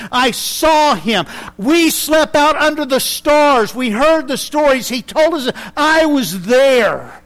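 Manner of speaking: passionate eyewitness insisting, building up; John answering the Gnostics like a preacher; old John preaching. Retold or imitated. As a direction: hammer home that he was there. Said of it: "Kind of preaching".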